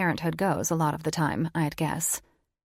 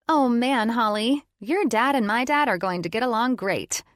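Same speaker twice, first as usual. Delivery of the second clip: lightly voiced teen girl, louder, higher; excited teen; 5 semitones higher, 4 dB louder than usual. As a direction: gush happily like a teenager. Voices Chloe.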